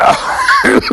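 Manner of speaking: high shouted laugh at the punchline; big burst of laughter. Real, not acted. After the punchline.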